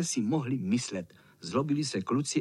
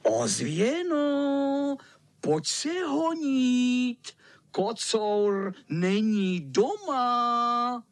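vysoko a hodně pomalu natahovat; volání; 8 semitones higher, much slower than usual. Acted. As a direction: volat do dálky. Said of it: "a zavolal". (pihovatý láká ozvěnu, protáhle volá)

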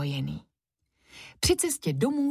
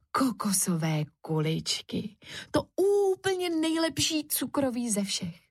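put-on dreamy boy; 7 semitones higher than usual. Kuba dreams of sweets.

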